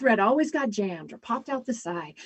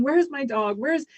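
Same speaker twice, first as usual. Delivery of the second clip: panicked pleading; 5 semitones higher, 4 dB louder than usual. Retold or imitated. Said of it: "he was panicking".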